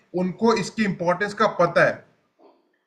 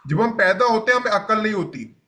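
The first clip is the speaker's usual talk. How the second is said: जब हम पैदा होते हैं repeated a little slower and more deliberate; said more slowly. Shown as a demonstration. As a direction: say it again, slower, so it sinks in. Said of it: "मैं धीरे धीरे करके बोलूंगा".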